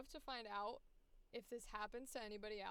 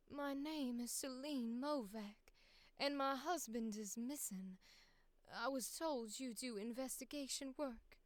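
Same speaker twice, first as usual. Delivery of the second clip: soft not-quite-Southern accent. Shown as a demonstration. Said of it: "That kinda, like, soft, you think it's Southern, but it's not quite".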